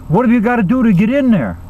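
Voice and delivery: nagging wife. Acted. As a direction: demand it as the pushy wife. Nagging wife demands entry.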